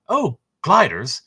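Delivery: mock British officer surprise; British accent. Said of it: "I shouldn't say that with a British accent".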